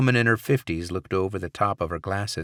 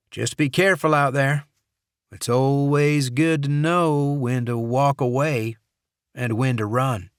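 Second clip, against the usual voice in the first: knowing guard voice; 6 semitones higher, 5 dB louder than usual. Acted. Dixon's wordplay on a country singer's song.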